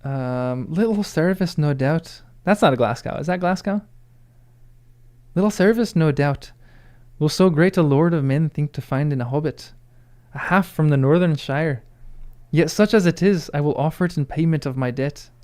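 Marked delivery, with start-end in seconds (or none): 0.7-2.2 attempted Glaswegian accent. Shown as a demonstration. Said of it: "could do a Glasgowian accent". 5.4-15.3 amateur Glasgow accent with a lifted lilt; attempted Glaswegian accent. Shown as a demonstration. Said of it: "could do a Glasgowian accent".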